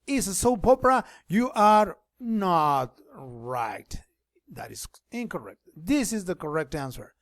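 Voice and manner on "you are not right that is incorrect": playful whisper. Acted. Playful aside to students.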